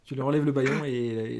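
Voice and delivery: ordinary delivery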